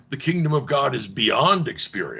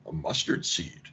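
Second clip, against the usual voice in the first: breathy near-whisper, much softer and lower; hushed cryptic answer; 9 semitones lower, 9 dB quieter than usual. Pretend. Jesus answering the kingdom question in a cryptic hush. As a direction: drop to a secretive hush.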